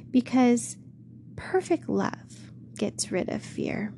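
gentle shepherd. Acted. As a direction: speak lovingly, taking your time.

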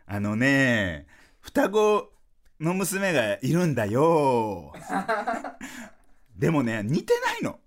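very slow, stretched-out words with gaps; slow, simplified speech. Retold or imitated. Dad redoing his act for his daughter, slow and easy to follow. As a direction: spell it out slowly, as if for a child. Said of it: "遅く喋ってほしいの".

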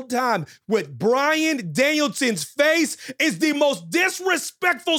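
slow, emphatic rant climbing very high; indignant comic tirade, drawn out and rising; mock outrage. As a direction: stretch every word, building to a high-pitched peak. Indignant rant about a disrespectful shirt.

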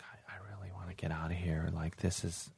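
imitating a whispered plea to leave; hushed, very soft aside; off-mic whisper. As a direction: whisper it privately, away from the mic. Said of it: "goes off mic like".

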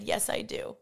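breathy whispered "Yes, I do"; hushed yes. Retold or imitated. Retelling the friend's quiet yes, whispered. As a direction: whisper it like a tender vow.

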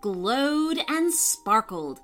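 lively bedtime-story reading voice; story narration. A narrator's reading. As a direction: tell it gently to young listeners. Storyteller reads to children.

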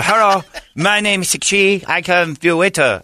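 high, slow put-on waiter accent; slow caricatured waiter voice; mock Asian accent. Voicing an imagined waiter.

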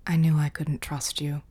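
rough sandpaper croak. Acted. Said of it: "Anton croaked, his voice like sandpaper".

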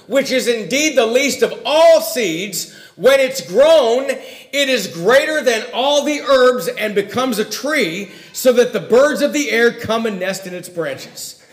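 slow, measured reading of scripture; slow, solemn Bible reading. Acted. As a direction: read the verse with weight. Reads scripture passage aloud.

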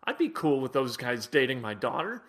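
mock nice-guy musing. Host mocking what fans think of nice players, soft and quiet. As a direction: hush it like a naive fan admiring polite players. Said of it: "and you think".

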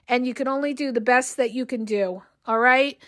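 tired, strained voice after a long day; worn-out voice; voice giving out. Real, not acted. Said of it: "I'm losing my voice".

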